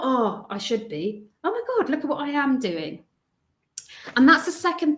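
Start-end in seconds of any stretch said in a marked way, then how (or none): 0.0-1.3 slow, sinking guilt-trip tone; the wrong take, heavy and dutiful; deflated self-scolding. Shown as a demonstration. 1.4-3.0 higher, bright pleased surprise; the right take, amazed at yourself; proud delight. Shown as a demonstration. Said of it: "I want you to think".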